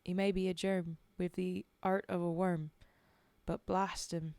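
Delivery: put-on Cockney-ish accent. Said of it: "that original accent".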